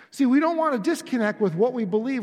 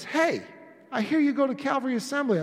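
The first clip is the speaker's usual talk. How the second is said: lightly acted friendly passerby, pitched higher; a hint of a chatty acquaintance, quicker and higher; curious stranger; 5 semitones higher than usual. Someone comes up to you at Walmart, lightly voiced curious stranger. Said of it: "someone comes up to you and says".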